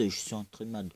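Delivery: lightly done southern French accent. Shown as a demonstration. Gamer repeats his line in his southern French accent. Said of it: "mon accent du sud".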